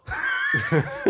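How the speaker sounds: mock snigger, breathy and unvoiced; imitated snickering. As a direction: snicker like he did. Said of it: "guckt mich so alle paar Sekunden an so".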